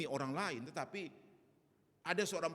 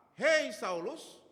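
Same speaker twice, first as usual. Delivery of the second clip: calling out; 8 semitones higher, 9 dB louder, much slower than usual. Acted. God calling out to Ananias.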